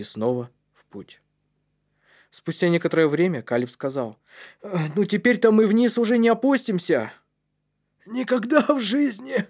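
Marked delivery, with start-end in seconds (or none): 4.6-7.1 put-on high, determined young voice; resolute boy. A narrator's reading. Калиб tells his friends there is no going down, resolute. 8.1-9.5 put-on very high, emphatic boy's voice; exclaiming. A narrator's reading. Кнут refuses to go back down, exclaiming. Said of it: "воскликнул Кнут".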